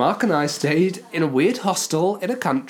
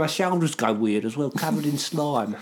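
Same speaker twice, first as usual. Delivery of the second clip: put-on Cockney accent; 4 dB quieter than usual. Telling a friend it's covered in slime, comic Cockney. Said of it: "I like how you say slime".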